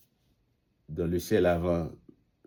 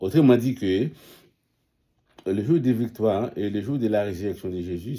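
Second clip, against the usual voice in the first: louder and quicker, driving the point home; emphatic preaching; 3 semitones higher, 5 dB louder, faster than usual. Real, not acted. Preacher to the congregation on resurrection day, loud and quick. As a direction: hammer the day of victory.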